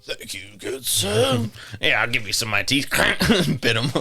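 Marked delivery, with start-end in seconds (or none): 0.0-1.5 high, slow, put-on gentleman voice; a playful, hammed-up toff; mock-courtly thanks, pitched up; posh mock gent.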